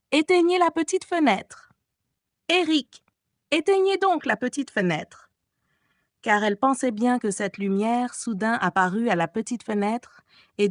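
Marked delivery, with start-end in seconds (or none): 0.1-5.2 gentle pleading. A narrator's reading. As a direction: beg him tenderly and ardently. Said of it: "sur le ton le plus doux qu'elle put trouver et de la plus ardente supplication".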